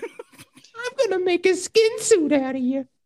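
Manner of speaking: piping, very high-pitched, menacing voice. Acting out a scissor-swinging attacker: Whitey voice from Eight Crazy Nights. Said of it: "You sound like Whitey from that Eight Crazy".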